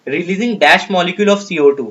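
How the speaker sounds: slow, deliberate reading of an exam question. Acted. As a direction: read each word out slowly for the class. Teacher reads question aloud slowly.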